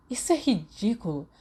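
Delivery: dismissive scoff. A narrator's reading. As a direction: brush it off with scorn. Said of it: "Black zombou".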